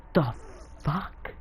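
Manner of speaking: drawn-out, halting curse rising at the end; acted disbelief. Jiraiya hearing Naruto already summons three animals, incredulous. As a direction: split the words, lift the last in disbelief.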